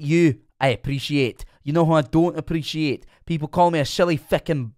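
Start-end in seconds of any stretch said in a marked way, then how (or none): 3.2-4.7 put-on slipping into a light Irish accent; an accidental mock Irish lilt. Streamer meaning Scottish but slipping into a light Irish accent. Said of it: "I went Irish".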